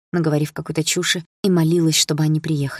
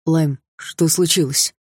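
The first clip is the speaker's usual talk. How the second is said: nervous; slower than usual. Acted. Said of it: "нервно спросил Власов".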